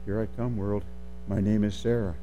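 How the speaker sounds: put-on soft, low little-girl declaration, barely projected; small timid voice. Intimidated girl first saying who she is, small and quiet. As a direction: say it small and hushed, as if still far off. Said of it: "getting bigger and bigger and louder and louder".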